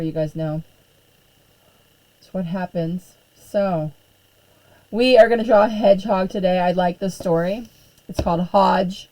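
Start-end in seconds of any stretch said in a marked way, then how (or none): 4.9-9.1 talking while chewing gum; words round a wad of gum. Real, not acted. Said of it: "sorry, I gotta get rid of my gum".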